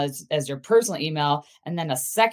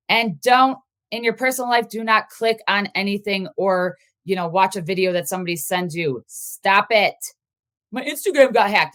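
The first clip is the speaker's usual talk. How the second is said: worked up; 2 semitones higher than usual. Real, not acted. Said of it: "I'm getting all worked up here".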